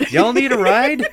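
high, very loud holler; big high-pitched hollered offer; calling out. Acted. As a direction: shout it out to friends across the way. Character calls out to the others.

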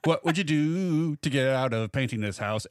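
commercial voice. Pretend. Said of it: "reverse of a Klondike bar commercial".

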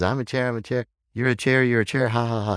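put-on high, giggly kid chant; little child. Child joins the chair game, high childish glee. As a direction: chant it back like a teasing child. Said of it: "And he goes".

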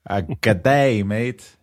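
a hammed-up try at an Australian accent. Host trying an Australian accent on his co-host, mock Aussie. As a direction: say it like a cheery Aussie, not quite landing. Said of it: "this was my best Australian accent".

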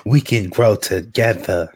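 slow, syrupy mock pleading; mock lovesick plea. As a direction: ham up the lovesick begging. Joining the mock letter.

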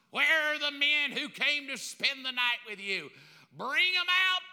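mob shout. Acted. Mob shouting at Lot's door.

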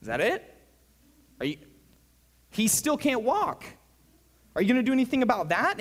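mock the crowd's baffled outrage; incredulous crowd. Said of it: "everybody there was like".

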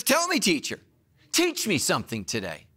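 arrogant. Acted. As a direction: smugly challenge the teacher. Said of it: "in his own arrogance".

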